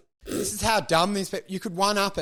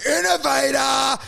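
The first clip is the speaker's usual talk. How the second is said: mock acclaim; 5 semitones higher, 4 dB louder than usual. Imitating fans hailing the inventor, mock acclaim. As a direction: hail him like an awed crowd.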